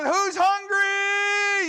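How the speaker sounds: slow, high, loud call to the crowd; joyful shout. Pretend. Philip calling out to the hungry crowd, slow high shout. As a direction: belt it out to the whole field.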